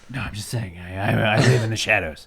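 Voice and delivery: muffled villain voice through a hand; Bane voice. Pretend. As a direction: hand over mouth, muffled villain growl. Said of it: "And I do that in the Bane voice".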